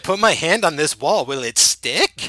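mock narrator musing aloud; movie narrator voice. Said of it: "bring that fucking narration back halfway through the movie to be like".

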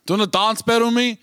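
quick, high, eager ask; eager crowd guy. Retold or imitated. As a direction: rattle it off like a keen punter. Imitating crowd guy asking.

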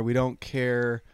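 slow, weary dismissal; dismissive, drawn out. Retold or imitated. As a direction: drag out the brush-off. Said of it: "people are probably gonna be like".

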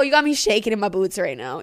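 ordinary talk, nothing marked

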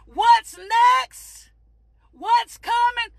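driving, emphatic sermon delivery; fervent preaching. Real, not acted. Preacher encouraging people in a storm, fervent preaching. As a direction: preach it with rolling conviction.

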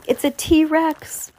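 slow, high, awed gasp. A narrator's reading. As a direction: stare up at it and breathe it out. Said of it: "Lucy gasped".

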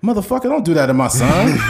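mock protective dad, laughing through it; angry dad. Dad scolding the doctor who pranked his son, mock angry. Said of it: "he's like".

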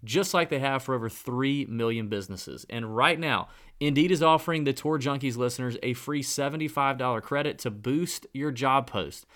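upbeat, brisk sponsor read; bright promo read with a call to action. Acted. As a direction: sell it like a podcast ad spot.

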